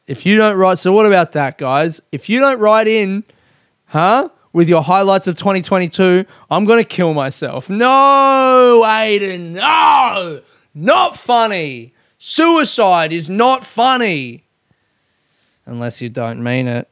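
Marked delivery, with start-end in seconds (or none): 0.1-7.7 mock threat. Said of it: "that's what I just did there". 7.7-14.4 high, slow scolding of himself; mock scolding. Aiden scolded by a stern inner voice, mock-serious. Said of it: "scolding himself as a second voice".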